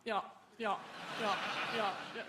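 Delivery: string of short posh British yeahs. Retold or imitated. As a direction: imitate posh agreement, one yeah after another. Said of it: "they often go".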